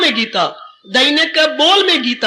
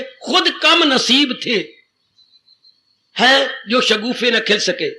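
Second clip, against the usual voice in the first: slow poetic recital; slower than usual. Shown as a demonstration. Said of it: "महापुरुष क्या कह गए".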